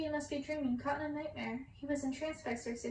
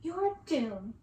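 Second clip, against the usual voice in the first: gleeful taunt; 3 semitones higher, 5 dB louder than usual. Acted. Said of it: "laughing, while she clapped".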